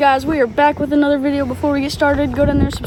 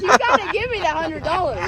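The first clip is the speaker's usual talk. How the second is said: mock crying; 3 semitones higher, 4 dB quieter than usual. Playful demand for prize money.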